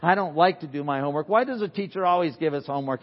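a hint of a complaining kid; lightly voiced kid griping about peas; preacher mimicking a child whining about homework; whiny child. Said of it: "teach any of your kids how to complain".

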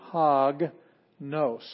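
"hog nos" with an h sound on the rough breathing mark; rough breathing demo. Shown as a demonstration. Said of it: "notice that it has a rough breathing mark".

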